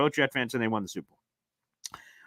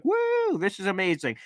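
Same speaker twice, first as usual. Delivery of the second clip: 1 mock cheer; 6 semitones higher than usual. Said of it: "hear me talk about it".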